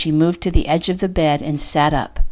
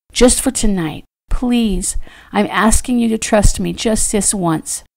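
higher-pitched, earnest pleading; pleading wife; 3 semitones higher than usual. Acted. Fallon begging Trader to stay the night, pleading. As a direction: beg him to stay, haltingly at first.

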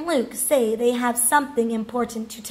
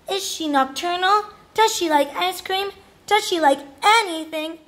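high-pitched barrage of questions; eager pestering; 6 semitones higher than usual. Acted. Rascal pesters siblings about Miss Gobblecracker, eagerly. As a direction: fire off excited questions, peaking at the last.

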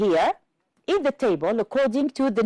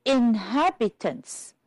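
"Inhabitants" drawn out slowly for counting; slow, measured "Inhabitants", each syllable audible; syllable demonstration; slower than usual. Shown as a demonstration. Teacher asking class to count syllables, "Inhabitants" said slowly. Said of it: "How many syllables?".

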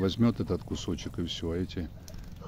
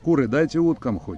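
calling out to hens; 7 semitones higher, 7 dB louder than usual. Real, not acted.

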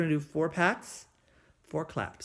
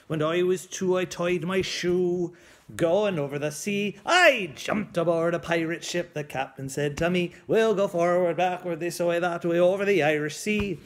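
lightly growled singsong pirate; 4 dB louder than usual. Acted. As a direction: belt it like a jolly pirate. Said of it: "that crazy pirate voice".

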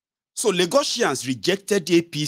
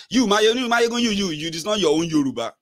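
higher-pitched imitation of a flatterer; mock backpedalling follower; 4 semitones higher than usual. Follower assuring Mayegun he is excepted, mock placating. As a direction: imitate someone hastily making an exception, pitched up.

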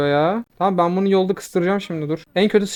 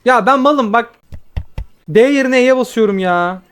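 self-directed frustration; 6 semitones higher, 5 dB louder than usual. Real, not acted. Misclicks ability, frustrated outburst.

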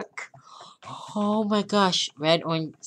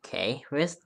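whisper; 4 semitones lower, 9 dB quieter than usual. Real, not acted. Quiet searching while playing.

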